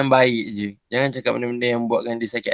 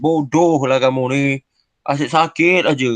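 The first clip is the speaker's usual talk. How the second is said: rude insult. Shown as a demonstration. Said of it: "cakap je mencarut".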